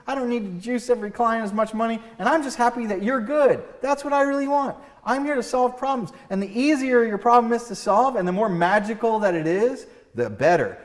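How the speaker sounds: high, loud, breezy rich doctor; hammed-up doctor who is happy and relaxed; cheerful smug doctor. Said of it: "the doc goes".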